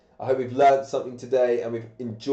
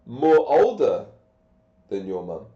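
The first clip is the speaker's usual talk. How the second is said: put-on "more older" punched louder as the error; wrong form; 2 semitones lower, 5 dB louder than usual. Shown as a demonstration. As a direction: stress "more older" to mark the mistake. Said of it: "Remember what we said".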